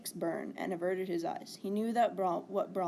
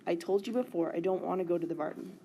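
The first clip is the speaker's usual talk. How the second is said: grudgingly louder. Acted. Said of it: "grudgingly said louder".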